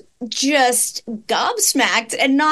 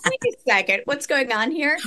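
cracking up mid-line; 4 semitones higher than usual. Retold or imitated. Retold reaction while laughing.

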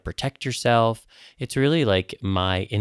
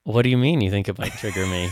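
a laughing shout of fake outrage; laughing protest. Real, not acted. Mock offense at Australia wish.

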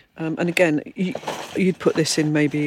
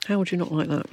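talking while crunching a cracker. Real, not acted. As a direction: mouth full, crunching. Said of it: "Sorry about the crunching".

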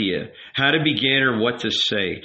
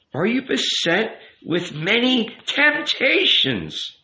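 slow, higher-pitched tender question; softer, tender; 10 semitones higher, slower than usual. A narrator's reading. Rabbi asking the youth about temptations, tender. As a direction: draw him out slowly and tenderly. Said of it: "his voice even softer now and tenderer".

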